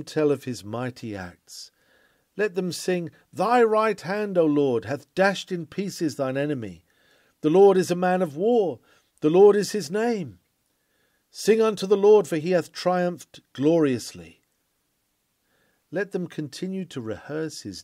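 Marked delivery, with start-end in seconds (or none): 3.3-14.4 ringing out the victory song, louder and higher; triumphant proclamation. Acted. Preacher bids believers sing the Lord's victory, triumphant proclamation. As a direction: proclaim it like a battle hymn of praise.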